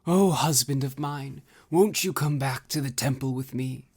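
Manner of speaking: high, doting wifely plea; a lovesick young goddess begging her husband; love-struck Ozma. Acted. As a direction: coax him home, lovesick and high. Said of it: "said love-struck Ozma".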